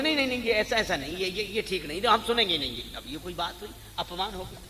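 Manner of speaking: mock flustered protest, stammered repeats; hasty objection. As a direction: act out someone objecting before hearing it out. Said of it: "ऐसे नहीं सुनते ही".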